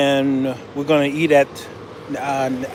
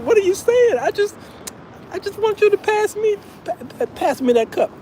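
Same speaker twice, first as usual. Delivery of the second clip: much higher, bewildered pleading; exasperated. Retold or imitated. Vlogger begs a kid to pass the cup, high and baffled. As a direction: plead in disbelief. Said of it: "I'm like".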